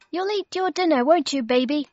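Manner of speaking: put-on grandma cooing at the baby in her high chair; Grandma's voice. A narrator's reading. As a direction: coax the baby sweetly like a granny. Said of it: "said Grandma".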